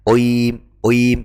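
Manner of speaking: oim said loud with a rounded o; mock the mistake; wrong pronunciation. Shown as a demonstration. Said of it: "tidak boleh". (bacaan salah oim)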